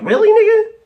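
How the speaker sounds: exasperated shout. Real, not acted. Exasperated outburst about coworker.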